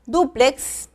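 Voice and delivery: careful teaching "Dúplex", stressed DÚ-plex; first-syllable stress. Shown as a demonstration. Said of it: "en la primera sílaba".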